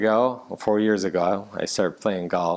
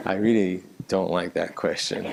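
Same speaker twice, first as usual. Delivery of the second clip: laughing; 3 semitones lower than usual. Real, not acted. Asked about his hobby.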